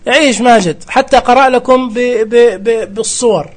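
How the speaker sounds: loud, high cheer for يعيش; excited cheer. Real, not acted. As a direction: cheer him on. Cheering the Majed voice. (هتاف متحمس)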